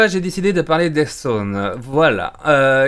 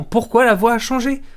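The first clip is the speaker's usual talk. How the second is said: puzzled inner question; 8 semitones higher than usual. Retold or imitated. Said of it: "je me suis dit".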